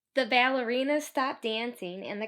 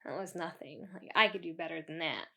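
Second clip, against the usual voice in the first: mock brag; 6 semitones lower, 7 dB quieter, faster than usual. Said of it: "You're like".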